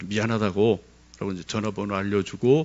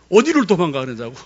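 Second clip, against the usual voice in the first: retold yell; 6 semitones higher, 8 dB louder than usual. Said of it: "막 소리를 지르더라고요".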